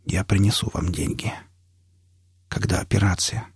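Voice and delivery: soft, effortful words; laboured speech. A narrator's reading. Failing patient promises doctor the money, weak and laboured. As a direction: push the words out weakly. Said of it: "Говорить становилось всё труднее".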